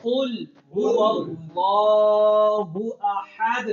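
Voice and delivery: slow "कुल हु अल्लाहु अहद", long laa; careful Quran recitation. Shown as a demonstration. Teacher leads the class in the verse, careful recitation. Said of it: "अब पढ़ें".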